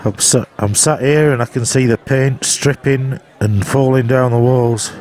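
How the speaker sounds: talking through a t-shirt over the mouth; muffled, mouth covered by shirt. Real, not acted. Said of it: "I'm speaking to you through my t-shirt".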